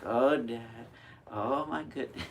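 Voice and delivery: put-on exasperated teen sighing at dad; eye-rolling teen. Teenager rolling eyes at her lecturing father, exasperated. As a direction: roll your eyes and groan at dad. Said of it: "a special skill about rolling their eyes".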